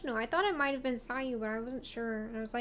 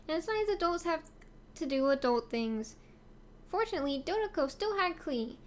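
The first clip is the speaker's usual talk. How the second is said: cutesy voice. Acted. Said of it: "a cutesy voice".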